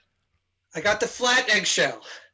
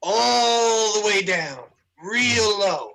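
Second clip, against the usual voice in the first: drawn-out wind-down; much slower than usual. Pretend. Demonstrating bridge winding down.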